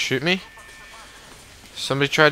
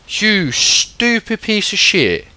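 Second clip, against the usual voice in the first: angry cursing; 6 semitones higher, 4 dB louder, slower than usual. Real, not acted. Cursing the enemy.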